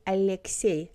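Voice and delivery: Alexei with a palatal Russian L; soft L. Shown as a demonstration. Teacher shows the example name, soft L. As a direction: soften the L in Alexei. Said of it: "L is soft".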